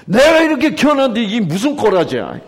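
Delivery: loud angry reading; angry parent. Shown as a demonstration. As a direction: scold the child in disgust. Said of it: "이런 말이에요".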